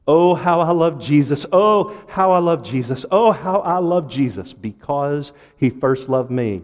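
measured, fervent hymn reading; rhythmic pulpit recitation; hymn recited as preaching. Real, not acted. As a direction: declaim the verse, then ease down at its end. Reads hymn chorus to congregation.

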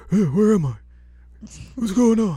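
put-on high befuddled old smith; confused old man. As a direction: wake up lost and bewildered. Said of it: "And he's like".

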